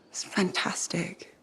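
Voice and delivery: breathy, slow, whispered it's fantastic; hushed, almost to herself. Real, not acted. Telling a friend that Halleck welcomed him back, whispered.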